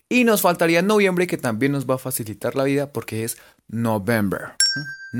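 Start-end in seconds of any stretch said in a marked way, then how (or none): 3.7-4.6 November as written, "no-bem-ber"; literal reading. Shown as a demonstration. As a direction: say November with Spanish vowels and B. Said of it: "Así, literal". (November literal, "no-bember")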